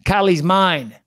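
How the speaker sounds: lightly acted Irish fighter's taunt; Conor McGregor. Host reads a rival's tweet back, lightly mocking fighter impression. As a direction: imitate a fighter trash-talking, lightly. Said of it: "and then Conor says".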